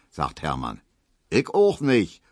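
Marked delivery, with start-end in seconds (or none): 1.3-2.2 calling out. A narrator's reading. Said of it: "ruft Emil".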